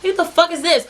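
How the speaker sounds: seeing her ex's FaceTime screenshot, rising shocked outrage. Retold or imitated. Shocked outrage. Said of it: "So I'm like".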